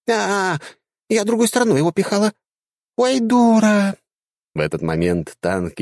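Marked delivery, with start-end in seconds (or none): 0.1-4.0 put-on high, squeaky girlish chatter; squeaky dryad. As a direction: play a silly little dryad, pitched way up. Dryad voiced in story.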